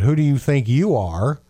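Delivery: understated indignant challenge; mild mock anger. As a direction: challenge them, with a touch of anger. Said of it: "Some probably in anger saying".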